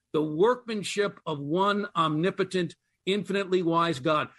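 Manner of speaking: "workmanship" given clear weight; stress on workmanship. Shown as a demonstration. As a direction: lean on "workmanship", then read on. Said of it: "Let me emphasize the word workmanship".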